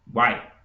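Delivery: "guai" in one short burst; undivided syllable. Shown as a demonstration. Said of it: "de uma vez só".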